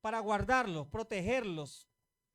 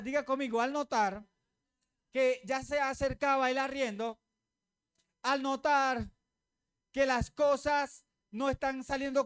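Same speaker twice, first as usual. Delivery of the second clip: rising sermon fervor. Acted. Preacher urging the congregation on, with rising intensity. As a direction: build the congregation toward the point.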